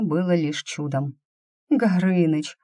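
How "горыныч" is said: groaning. Acted. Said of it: "простонала я".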